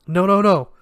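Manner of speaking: loud, high angry protest; furious no at Alice; angrily. Acted. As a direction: cut her off in anger. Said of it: "Elliot said angrily".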